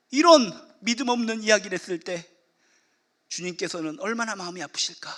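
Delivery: ordinary talk, nothing marked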